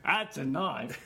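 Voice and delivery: slow, hammed-up Aussie drawl; awful Australian accent. Joking over a tiny garnish knife, bad Australian accent. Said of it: "that was an awful accent. I do a better Australian accent".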